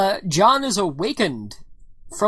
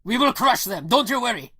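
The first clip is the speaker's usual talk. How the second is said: rallying Russian resistance fighter; proud, reassuring Russian comrade; broken English in a Russian accent; 3 semitones higher than usual. Acted. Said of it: "that's the Russian buddy".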